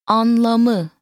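Anlamı drawn out syllable by syllable; slow teaching model. Shown as a demonstration. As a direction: stretch Anlamı evenly for a learner to copy. Teacher models word slowly, then normally.

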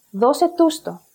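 "δώσε τους το" stressed on δώ and τους; "το" unstressed after stressed τους; extra stress on τους. Shown as a demonstration. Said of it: "moves to the previous syllable".

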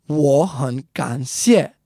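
slow 我很感谢, rising, rising, dipping, falling; tone sequence. Shown as a demonstration. Teacher reminds learners of the phrase, 我很感谢 slowly with changed tones. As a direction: spell out the tones of 我很感谢, syllable by syllable. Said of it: "altogether it would be second tone".

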